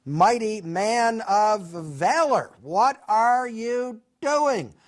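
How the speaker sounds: high, drawn-out hail to someone below; calling down. Acted. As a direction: call it out slowly from a height. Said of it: "and shouts down to him".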